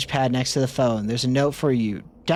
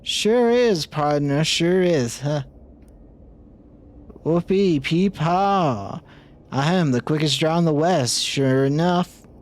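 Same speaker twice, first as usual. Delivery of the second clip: cowboy voice; 2 semitones higher than usual. Acted. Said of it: "Gabby doesn't talk like that".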